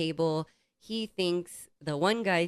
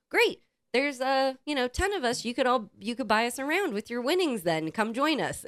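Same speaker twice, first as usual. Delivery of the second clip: mock sweet demand; 7 semitones higher than usual. Friend demands drinks from bettor.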